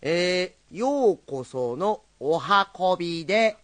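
slow, drawn-out storyteller greeting; slow rakugo opening. Shown as a demonstration. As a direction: savor each word of ようこそのお運びで. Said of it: "最初からもう一遍。".

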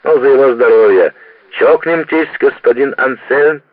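tipsy cheer over glasses; merry toast. Acted. Drunken toast at the table.

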